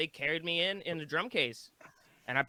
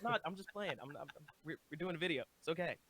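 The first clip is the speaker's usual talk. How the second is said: retold reassurance; 2 semitones higher, 7 dB quieter, faster than usual. Retold reassurance to scared passerby.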